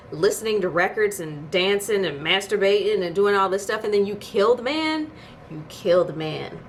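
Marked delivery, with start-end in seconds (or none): 3.8-5.1 "man?" rising high; outraged question. Real, not acted. Vlogger asking the writers in outrage. 5.5-6.6 "kill" falling, said slowly; flat, slow verdict. Real, not acted. Vlogger repeating the verdict, slow and flat.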